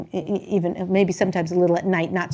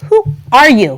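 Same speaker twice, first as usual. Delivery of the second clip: amazed; 3 semitones higher, 8 dB louder than usual. Retold or imitated. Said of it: "And I'm like".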